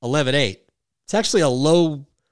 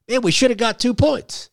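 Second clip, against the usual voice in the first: inner voice; 10 semitones higher than usual. Retold or imitated. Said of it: "you think".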